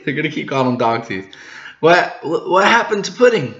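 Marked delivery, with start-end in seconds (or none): 1.8-3.5 demanding boss. Acted. Big Mom's demanding question.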